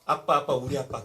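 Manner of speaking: put-on loud, eager "아빠, 아빠" like a small boy; a little child calling out to his dad; light, imitated child's call; childlike calling. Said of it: "이삭의 나이에".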